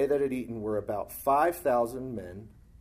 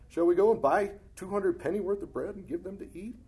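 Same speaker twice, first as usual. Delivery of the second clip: much higher, louder indignant disbelief; incredulous question; 9 semitones higher, 4 dB louder than usual. Acted. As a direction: disciples balking at the cost.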